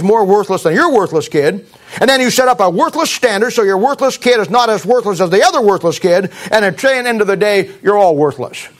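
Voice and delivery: worthless hit hard each time; preacher hammering the word worthless at the congregation; emphasis on worthless. Real, not acted. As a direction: lean heavily on every worthless. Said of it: "Notice my heavy emphasis on the word worthless".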